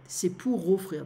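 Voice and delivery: C'est pour offrir with pour linked smoothly into offrir, no break; liaison demo. Shown as a demonstration. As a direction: glide the r of pour straight into offrir. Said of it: "There is a small liaison here".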